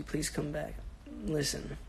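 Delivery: usual speaking voice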